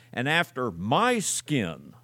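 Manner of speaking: slow, with "my" brought out; weight on "my", unhurried; stress on MY. Shown as a demonstration. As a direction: draw out and lean on "my" before "skin". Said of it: "I emphasize the word my".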